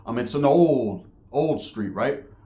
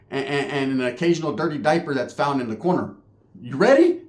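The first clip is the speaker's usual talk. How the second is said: worked-up rant; 4 semitones higher than usual. Retold or imitated. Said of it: "I said".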